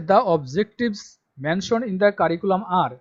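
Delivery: reads the English line out very slowly and loudly, word by word; slow dictation reading. Shown as a demonstration. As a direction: spell it out slowly for students to copy. Reading syllabus text aloud. (ধীরে ধীরে জোরে পড়ে শোনানো)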